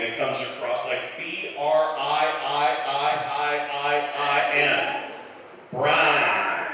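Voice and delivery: Brian stretched into a long slow Briiiin; Southern drawl on Brian. Retold or imitated. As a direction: drag the vowel in Brian way out, slow. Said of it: "when they pronounce my name".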